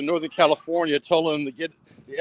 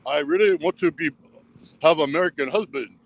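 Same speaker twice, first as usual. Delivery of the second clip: mock Russian girl. Vlogger voicing an imagined Russian girl saying yes, mock accent.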